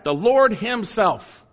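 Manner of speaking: "the Lord himself" spoken slowly, each word weighted; slow down and land on "Lord himself"; very emphatic. Shown as a demonstration. Pastor repeating verse for congregation, slow heavy emphasis. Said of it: "very emphatic".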